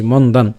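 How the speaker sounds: "মন্দান" as mon-dan, stopping on n with no final vowel; half pronunciation. Shown as a demonstration. Teacher explaining the hasanta, "মন্দান" said with a closed n. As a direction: cut "মন্দান" off at the closing n. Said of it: "অর্ধেক উচ্চারণ করছি".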